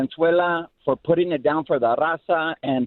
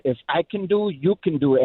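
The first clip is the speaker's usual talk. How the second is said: put-on light Mexican accent. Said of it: "such a heavy accent".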